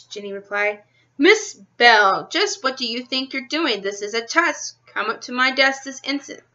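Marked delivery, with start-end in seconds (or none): 1.2-6.4 a hint of a stern teacher scolding; teacher catching a pupil cheating, stern. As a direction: scold the pupil firmly, lightly voiced.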